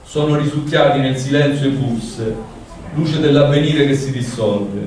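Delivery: measured, even recital of a poem; poetry reading. Acted. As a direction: read the poem aloud with care. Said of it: "ora vado con la traduzione".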